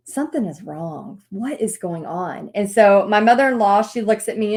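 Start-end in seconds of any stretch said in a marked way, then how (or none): 0.1-2.5 frustrated. Retold or imitated. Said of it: "she senses my frustration".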